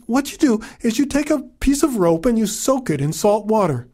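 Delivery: lightly voiced wise old woman; old mother voice.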